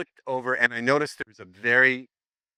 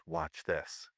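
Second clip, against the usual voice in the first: low, soft aside to a friend; retold undertone; under his breath; 7 semitones lower, 11 dB quieter than usual. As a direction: murmur it low, for one ally only. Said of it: "I say to him under my breath".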